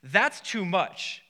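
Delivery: slow, grave doctor's warning; serious doctor. Retold or imitated. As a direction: lay down the verdict slowly and gravely. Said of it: "he got very, very serious".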